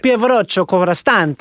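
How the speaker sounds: hammed-up Italian accent, joking; mock Italian tourist accent, deliberately bad; a playful send-up of a bad Italian accent. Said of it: "doing an impersonation of a bad Italian accent".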